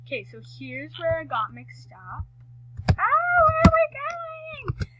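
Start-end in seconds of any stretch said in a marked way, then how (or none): 2.9-4.9 startled. Real, not acted. Lost on the race course, startled.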